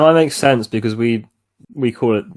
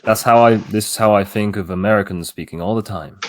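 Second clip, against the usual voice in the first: American accent. Shown as a demonstration. Asked to show friends an American, attempted American accent. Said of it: "kinda sounds like this, where you just talk".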